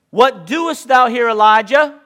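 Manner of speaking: slow, loud divine question; a booming, slow rebuke from God; voice of the Lord. Acted. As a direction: call out to the hiding prophet. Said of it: "and he said unto him".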